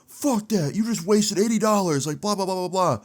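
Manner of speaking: high-pitched mock student rant; put-on high whiny protest, trailing into blather; indignant ranting. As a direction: imitate an outraged student running on. Acted student arguing with teacher.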